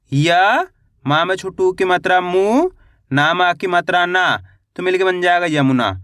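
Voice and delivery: य alone, मु rising, then यमुना whole and falling; syllable-by-syllable spelling. Shown as a demonstration. Teacher showing beginners how to read यमुना, syllable by syllable. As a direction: sound out यमुना piece by piece. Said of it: "एक एक अक्षर का उच्चारण करके".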